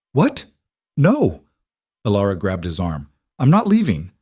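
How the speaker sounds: alarmed protest. Acted. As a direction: refuse him in alarm. Alara protests loudly.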